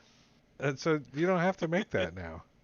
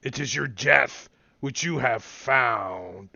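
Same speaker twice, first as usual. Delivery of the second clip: booming voice; 2 semitones lower than usual. Acted. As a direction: boom it out like an ancient guardian. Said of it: "a booming voice says".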